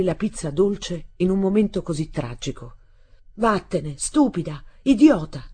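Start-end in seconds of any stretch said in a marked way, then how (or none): 3.3-5.5 angry yell building louder to the end; furious shout. A narrator's reading. Boy driving his stepmother away, furious shout. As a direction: hurl the insults, rising to a shout. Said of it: "le gridai".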